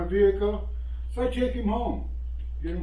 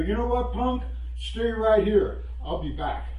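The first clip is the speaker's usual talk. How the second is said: firm comeback; 4 semitones higher than usual. Retold or imitated. Old man warning the punk from his truck, firm threat. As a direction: stand your ground and warn him.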